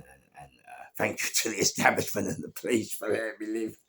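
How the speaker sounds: normal talking voice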